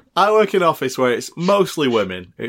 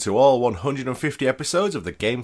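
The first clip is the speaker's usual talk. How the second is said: steady recorded plug for the podcast; promo read; 4 dB quieter than usual. Acted.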